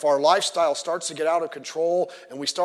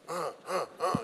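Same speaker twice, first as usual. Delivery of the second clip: small, soft grunts of effort; scratching grunts; 8 dB quieter than usual. Acted. Pastor scratching his back on a wall, grunting. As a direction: grunt quietly while rubbing an itchy back.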